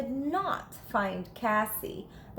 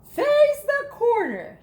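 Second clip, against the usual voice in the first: high, loud command; strict principal; stern principal order; 12 semitones higher, 7 dB louder than usual. A narrator's reading. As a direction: order the dog sharply. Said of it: "she said".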